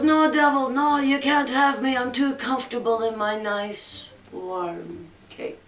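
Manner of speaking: mild protest fading away very soft; protest, then settle snugly into a soft murmur; lightly voiced wily Jack. Dying Jack refusing the devil, mildly, trailing off softly.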